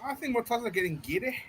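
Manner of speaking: broad northern English accent. Real, not acted. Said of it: "Say that again, Timo".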